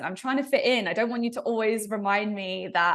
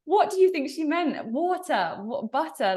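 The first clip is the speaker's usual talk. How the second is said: laughing disbelief; 7 semitones higher, 4 dB louder than usual. Retold or imitated. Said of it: "They were like".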